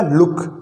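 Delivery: लुक with a short u; लुक said with a quick, short oo; short vowel. Shown as a demonstration. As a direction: keep लुक brief, vowel not stretched. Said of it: "मैंने क्या बोला?".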